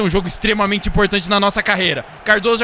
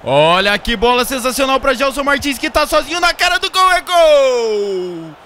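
explosive goal commentary; 5 semitones higher, 5 dB louder than usual. Acted. Third goal scored.

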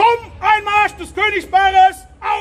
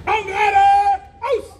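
barked drill commands; 13 semitones higher, faster than usual. Real, not acted.

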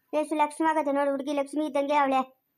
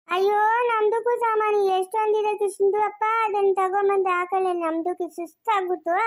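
slightly high neighbour woman in broken Kannada; lightly voiced, wheedling neighbour asking for help; chatty neighbour Padma; 4 semitones higher than usual. (ಒಡಕು ಕನ್ನಡದ ನೆರೆಮನೆಯಾಕೆಯ ದನಿ)

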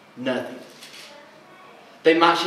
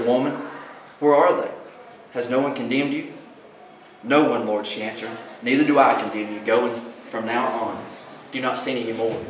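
low, soft tender voice; Jesus gently forgiving; gentle Jesus; 3 semitones lower, 3 dB quieter than usual. Acted. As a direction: speak kindly to the woman. Jesus speaks gently to woman.

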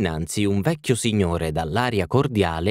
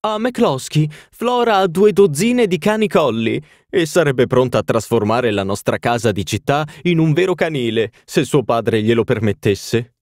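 put-on much higher, louder grand old lady; haughty duchess; 6 semitones higher, 4 dB louder than usual. A narrator's reading. Duchess telling the party of her castles, lofty and high.

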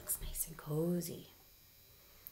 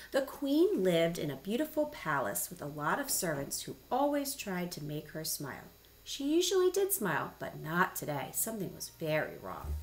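lively, swooping storybook narration; expressive picture-book reader; story reading to children. Acted. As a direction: read it aloud for little listeners.

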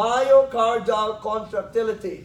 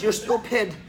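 laughing patient quote. Retold or imitated. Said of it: "She says".

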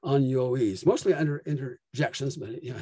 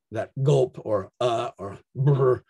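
demo interjection sounds; 2 semitones lower, slower than usual. Shown as a demonstration. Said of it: "no explanation of what".

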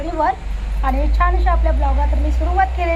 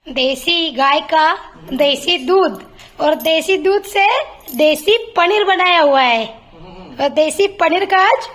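mock Hindi dialogue. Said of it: "एक dialogue, dialogue मारायचा".

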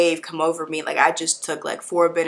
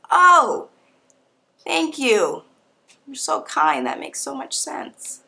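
overly polite; 6 semitones higher, much slower than usual. Retold or imitated. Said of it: "I was so polite".

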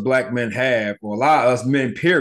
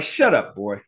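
stern grandma. Retold or imitated. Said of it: "My grandma was like".

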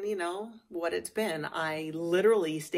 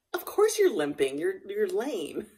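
scolding horse; 4 semitones higher, 6 dB louder than usual. Retold or imitated. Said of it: "and I'm like".

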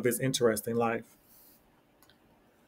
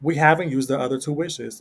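exclaiming. Acted. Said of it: "exclaimed the wife".

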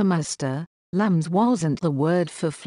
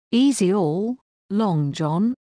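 raised, higher-pitched protest; pirate crying out to calm Long John; cried out; 3 semitones higher than usual. A narrator's reading. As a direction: call out to calm him down. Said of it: "cried Israel".

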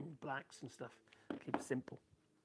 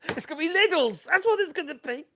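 louder, higher, joking; amused; 11 semitones higher, 13 dB louder than usual. Real, not acted. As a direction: sell the joke with a laugh in it. Joking about Lidl batteries.

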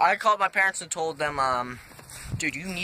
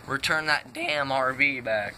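voice cracking; 5 semitones lower than usual. Real, not acted. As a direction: voice cracks mid-phrase. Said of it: "My voice cracked".

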